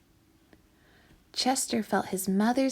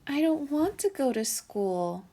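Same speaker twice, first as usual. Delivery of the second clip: put-on higher, pleading child voice; a small boy begging not to go; young raccoon whining to his mother; little raccoon child; 5 semitones higher than usual. A narrator's reading.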